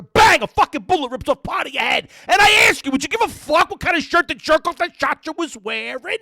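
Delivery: high, loud Brooklyn rant; hammed-up Brooklyn guy, loud and high; Vinny movie scene. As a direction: belt it out like Vinny quizzing his girlfriend. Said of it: "It's Marissa Tomei".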